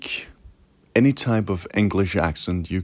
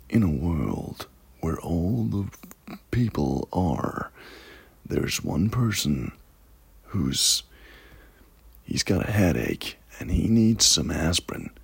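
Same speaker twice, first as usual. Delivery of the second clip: softly delivered, drawn-out epic trailer narration; movie trailer voice; 2 semitones lower, 4 dB quieter than usual. Shown as a demonstration. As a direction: intone it like a film trailer. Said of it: "how about a good, uh, trailer voice".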